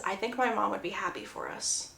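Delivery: soft, timid voice; very shy. Retold or imitated. Jer telling Laurel his mom would approve, very shy. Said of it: "very shyly says".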